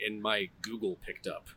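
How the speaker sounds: unvoiced whisper so the assistant won't wake. Real, not acted. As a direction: whisper so the phone won't hear. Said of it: "whisper so assistant won't hear".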